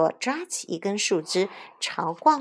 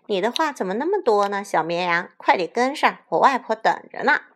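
impatient; 2 semitones higher, 5 dB louder than usual. Acted. Impatiently hurrying a dawdler.

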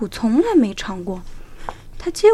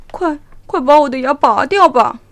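urgent plea; 4 semitones higher, 11 dB louder than usual. A narrator's reading. Tiger begs doctor.

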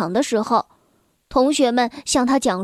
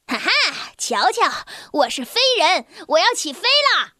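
excited boast; 4 semitones higher than usual. Acted. Boy showing off on railing.

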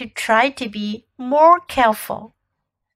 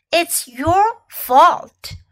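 blaming; 5 semitones higher, much slower than usual. Shown as a demonstration. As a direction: lean hard on "your", slowly. Teacher drills phrase twice.

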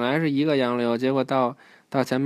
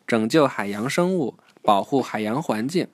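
rousing story narration; 2 semitones higher than usual. A narrator's reading. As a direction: announce the mission, stretching the final words. Reads the mission to a child.

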